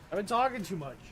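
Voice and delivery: soft, raspy sore-throat voice; raspy whisper. Pretend. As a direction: rasp it out quietly like a sore throat. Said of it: "'Cause I've been talking too much".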